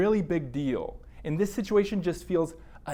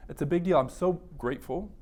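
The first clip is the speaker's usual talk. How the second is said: gentle therapist debrief. Shown as a demonstration. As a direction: warmly thank the client for sharing. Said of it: "doing just that".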